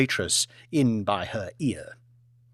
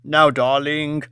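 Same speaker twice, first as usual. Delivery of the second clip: placating; 4 dB louder, slower than usual. Acted. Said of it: "attempted to placate her".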